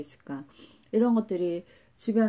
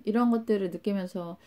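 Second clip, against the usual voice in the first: ordinary delivery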